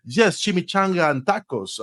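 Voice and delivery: a hint of a hammed-up goofy sales pitch; silly joking salesman. New salesman clowning for a customer, mildly hammed-up. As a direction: play the clown to win the laugh. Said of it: "making funny, silly stuff".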